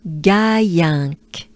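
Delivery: Gaillinck with a French A and a nasal end. Shown as a demonstration. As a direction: model Gaillinck for learners to copy. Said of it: "French A".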